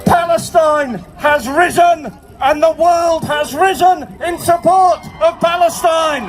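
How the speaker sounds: full-force, measured public speech; rally oratory. Real, not acted. Union chief addresses the demonstration, shouted oratory. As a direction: deliver each phrase out to a big crowd.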